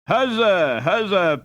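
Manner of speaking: high, loud triumphant cry; cheering. Acted. Crowd cheering Peter's win, loud and high. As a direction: cheer the winner home.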